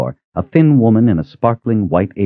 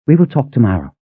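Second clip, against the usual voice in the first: put-on higher elderly woman's voice, gently echoing; tender old cook; 5 semitones higher, faster than usual. Cook echoing Kaelin's promise, higher tender old voice.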